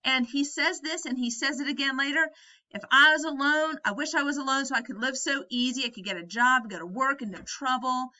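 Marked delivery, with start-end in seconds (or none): 2.7-8.1 exploding George. Retold or imitated. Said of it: "George explodes".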